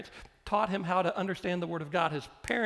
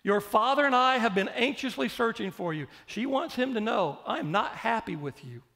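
high, loud scolding mother voice; 4 semitones higher, 4 dB louder than usual. Retold or imitated. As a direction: play the mother who scolds her son after three days of searching. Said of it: "And it goes something like this".

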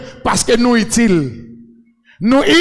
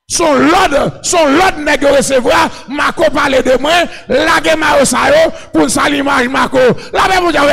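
fervent preaching; 3 semitones higher than usual. Real, not acted. Preacher declaiming to his congregation, fervent preaching. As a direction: preach it out to the crowd.

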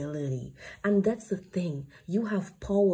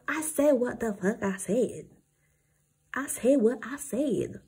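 lightly Southern, owning what you said; mock southern accent; 3 semitones higher than usual. Reader lightly puts on a Southern accent for listeners. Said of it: "now I'm speaking in this kind of a southern accent".

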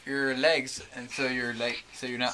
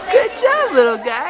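very high, bright praise; 11 semitones higher, 4 dB louder than usual. Real, not acted. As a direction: cheer the little one on. Praising toddler.

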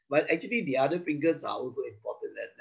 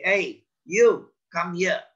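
commander; 3 semitones higher, 6 dB louder, slower than usual. Acted. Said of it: "I commander, captain and all".

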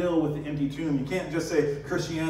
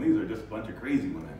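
dismissive scoff; 3 semitones lower, much faster than usual. Pretend. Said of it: "sit with their arms folded".

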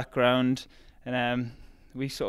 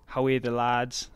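slow Geordie rallying phrase; drawn-out Geordie cheer for the team; 4 dB louder than usual. Shown as a demonstration. Runner showing what Newcastle fans say, Geordie accent. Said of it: "that's what we say".

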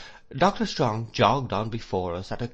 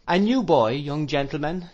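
higher, louder schoolmaster's announcement; raised voice presenting someone to a class; announcing to class; 6 semitones higher, 5 dB louder than usual. A narrator's reading. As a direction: address the whole room, pitched up. Doctor announces pupil to class.

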